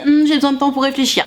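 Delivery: a hint of a coy, stalling girl; mimicking the girl. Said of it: "elle te dit".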